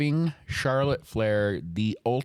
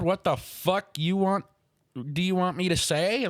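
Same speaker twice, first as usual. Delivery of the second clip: mocking imitation; 8 semitones higher than usual. Mocking Charlotte asking crowd.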